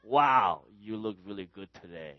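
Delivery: compliment them without any enthusiasm; unenthusiastic. Acted. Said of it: "I don't talk that way".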